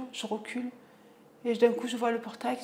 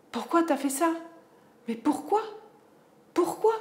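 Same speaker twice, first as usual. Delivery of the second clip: higher, louder, climbing pourquoi; angry demand; 7 semitones higher, 5 dB louder than usual. Retold or imitated. Mother confronting son over smashed screen, angry. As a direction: press him harder each time.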